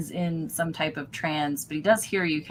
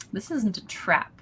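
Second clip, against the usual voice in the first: suspicious cultist. Acted. GM voices Barden.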